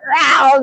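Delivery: short "row" exclamation; imitated cry. Old Spanish lady pointing at tattoo, imitated cry. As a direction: briefly mimic her odd noise. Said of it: "Like that, pointing at me tattoo".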